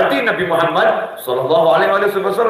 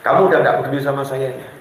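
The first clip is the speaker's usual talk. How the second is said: angry wife; 6 semitones lower, faster than usual. Retold or imitated. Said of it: "Mulai naik istrinya, marahnya".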